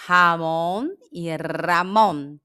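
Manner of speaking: Ramon first with Portuguese throaty R, then with a tapped R; slow contrast of Ramon and Ramon; two ways to say Ramon. Shown as a demonstration. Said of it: "Qual é a diferença delas".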